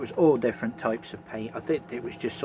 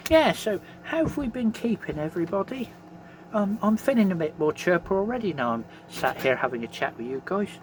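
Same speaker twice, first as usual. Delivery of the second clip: no teeth in; 5 semitones higher than usual. Real, not acted. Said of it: "Sorry there's no teeth in".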